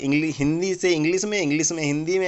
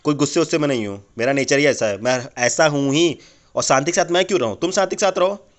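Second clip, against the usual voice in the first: gruff snapping; 3 semitones lower, 4 dB louder than usual. Acted. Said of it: "आप तो इतना गुस्सा आ गए".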